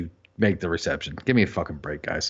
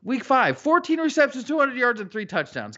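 stat rant; 11 semitones higher than usual. Real, not acted. Fan ranting to friends about a benched star, higher and higher. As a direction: pitch climbing higher with each number. Ranting over Will Fuller's stats.

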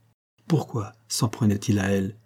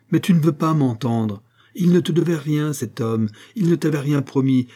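raised, heated protest; exasperated insistence; 5 semitones higher, 3 dB louder than usual. Acted. Monique telling Marin the man owed nothing, exasperated.

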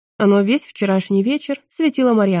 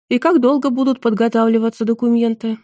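resigned; 3 semitones higher than usual. Acted. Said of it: "обречённо спросил Краут".

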